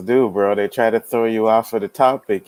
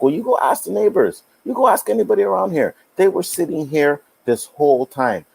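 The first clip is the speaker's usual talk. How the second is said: dad telling off cops; 9 semitones higher than usual. Retold or imitated. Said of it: "my dad was like".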